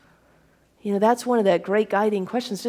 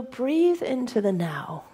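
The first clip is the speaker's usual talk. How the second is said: gentle guided breath; 3 semitones higher, slower than usual. Shown as a demonstration. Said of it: "if you took some how-to steps here".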